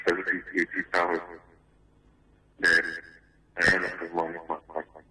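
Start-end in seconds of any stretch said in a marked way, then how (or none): 4.5-5.0 muffled voice, words unclear. Real, not acted. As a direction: speak muffled, hard to make out. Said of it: "you sound a bit muffled".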